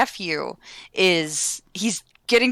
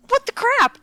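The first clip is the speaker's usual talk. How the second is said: mock outrage; 4 dB louder than usual. Aunt hit by nephew again.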